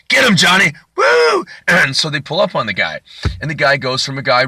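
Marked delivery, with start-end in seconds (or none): 0.1-1.5 high whooping holler, mock New Orleans cop; Steven Seagal. Action star calling to Johnny in the chase, high whooping shout. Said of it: "to a guy from New Orleans".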